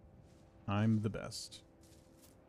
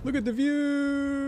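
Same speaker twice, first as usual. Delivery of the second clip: high, slow cry of wonder; delighted gasp at the scenery; awed; 13 semitones higher than usual. Real, not acted. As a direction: marvel at the view. Awed on reaching a height.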